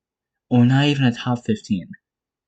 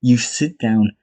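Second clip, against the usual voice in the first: louder, barked mock threat; mock tough-guy order; 5 dB louder than usual. Vlogger imitating a fighter's signature trash talk, louder. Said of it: "His, his main line".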